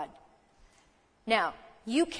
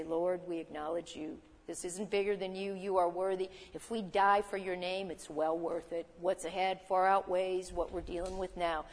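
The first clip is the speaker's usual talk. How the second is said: hushed, softer surrender to God; soft prayer; 3 semitones lower, 5 dB quieter than usual. Retold or imitated. Preacher voices Paul and Silas praying in chains, softly. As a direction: pray it low, as if in a cell at midnight.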